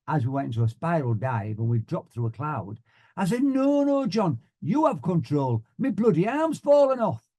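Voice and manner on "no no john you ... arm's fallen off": high-pitched mock-panicked plea; urgent. Student pilot in a spiral dive, urgent. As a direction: beg the instructor to take over, voice leaping up. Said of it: "with a little more urgency".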